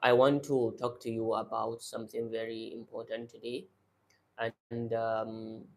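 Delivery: lazy mouth, swallow the words; low, soft mumbling under the breath. Shown as a demonstration. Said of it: "It's to speak like this".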